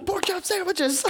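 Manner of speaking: high, slow shouted cartoon line; high cartoon quote. Quoting the pork chop PSA line to a friend, high and slow.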